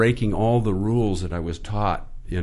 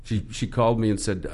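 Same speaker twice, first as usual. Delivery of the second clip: usual speaking voice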